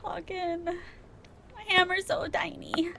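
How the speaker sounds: whispering. Pretend. Whispered complaint about hammer.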